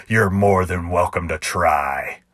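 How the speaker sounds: slow, even challenge from the cowboy; cowboy's challenge. Acted. Cowboy daring the clown to draw, slow and steady. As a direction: dare him calmly. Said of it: "in a perfect imitation of the cowboy".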